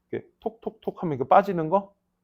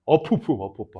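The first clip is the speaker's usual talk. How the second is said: splashing sputter; 3 semitones lower than usual. Retold or imitated. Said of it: "하면서".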